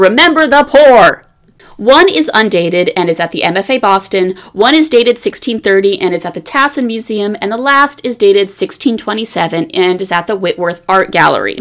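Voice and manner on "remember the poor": loud, pitched-up reading as if in capitals. Reading aloud an all-caps inscription on a bag: reading loudly. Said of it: "I say that very loudly because it is all in caps".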